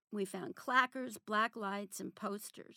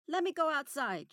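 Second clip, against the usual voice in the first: put-on demanding child; 7 semitones higher, 7 dB louder than usual. A narrator's reading.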